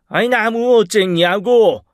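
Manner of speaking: high, loud, drawn-out angry demand; exasperated boss raising his voice; furious director. A narrator's reading. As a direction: demand an answer, ready to hit. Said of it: "칠 듯이 노려보며 다시 한번 물으셨습니다".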